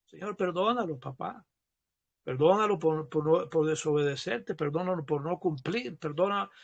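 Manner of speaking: soft, low pleading prayer; hushed, humble plea for forgiveness; re-enacted prayer. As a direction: murmur an intercession to God. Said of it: "tengo que pedir perdón por esa persona".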